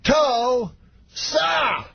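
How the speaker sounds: very high, hugely drawn-out syllables. Retold or imitated. Comic works up screaming crowd, very slow Bill Cosby imitation. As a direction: stretch each syllable with a gap between, imitating a star comic. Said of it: "every time slower".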